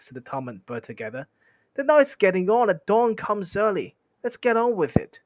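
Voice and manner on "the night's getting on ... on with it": high, loud urging; raised, impatient troll voice. Acted. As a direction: hurry them along, pitched up. Trolls urge getting on.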